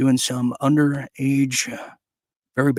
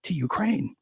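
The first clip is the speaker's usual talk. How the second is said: mock pledge; slower than usual. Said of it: "new declaration of no troops".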